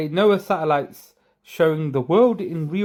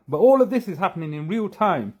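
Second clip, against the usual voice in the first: sarcastic; 3 semitones higher than usual. Acted. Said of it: "Please notice I'm being sarcastic".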